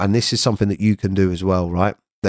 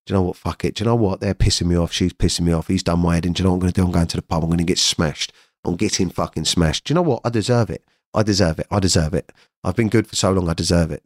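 mildly hushed, coaxing inner voice; tempting inner voice; 2 semitones lower, faster than usual. Retold or imitated. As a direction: lightly voice the urge talking you into a binge. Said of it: "realise that's a voice".

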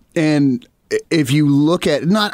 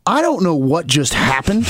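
baffled bandmates. Retold or imitated. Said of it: "our bandmates are like".

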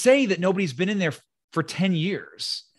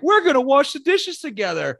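higher, sing-song mock invitation; mock sweet rock star; 8 semitones higher than usual. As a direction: parody a creepy charming host. Mocking a film character's line.

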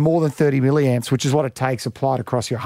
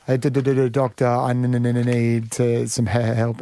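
stutter; 2 semitones lower than usual. Acted. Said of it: "he goes in with a stutter".

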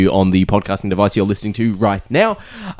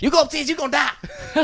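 high, laughing cartoon threat; silly put-on voice; 4 dB quieter than usual. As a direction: ham up a silly warning.

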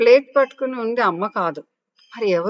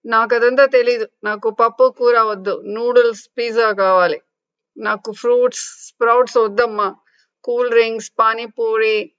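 mock crying tantrum; 3 semitones higher, 4 dB louder than usual. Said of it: "అంటూ ఏడవటం start చేసింది".

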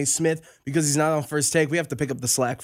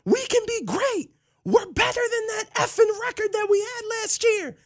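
much higher, crying player voice; mock tearful huddle speech. Running back cries while rallying the huddle, high mock sobbing voice. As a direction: ham up a sobbing team pep talk. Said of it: "And he starts crying".

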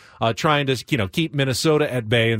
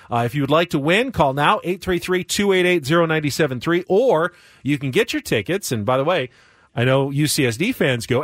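upbeat call-in contest read; radio contest promo. Acted. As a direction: plug the giveaway like a radio ad.

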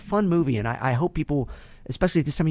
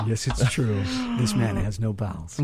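imitated Arnold accent; 5 semitones lower than usual. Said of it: "and he says".

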